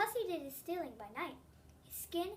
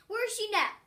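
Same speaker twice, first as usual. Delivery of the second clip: high, much louder impatient cut-in; breaking in; 8 semitones higher, 11 dB louder than usual. A narrator's reading. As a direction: jump in over the boy, urgent. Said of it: "Juan broke in".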